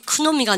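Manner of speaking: "크노미가" with a K before the N; K sounded in know. Shown as a demonstration. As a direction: offer the wrong K reading in "크노미가". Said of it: "항상 K는 묵음이에요".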